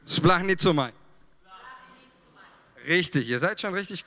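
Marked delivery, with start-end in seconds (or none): 0.1-0.9 "Splachnizomai" loud and clear, spaced as splach-ni-zo-mai; Greek word drilled. Shown as a demonstration. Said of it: "Okay, nochmal, das müssen wir üben". (laut und deutlich vorgesprochen: "Splachnizomai")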